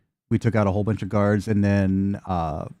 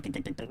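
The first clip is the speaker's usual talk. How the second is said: rapid soft ticks imitating mandibles; clicking mandibles; 2 semitones lower, 17 dB quieter, faster than usual. Game master imitates the bug's mandibles, soft clicking. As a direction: tick like insect jaws, very softly. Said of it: "Mandibles, like".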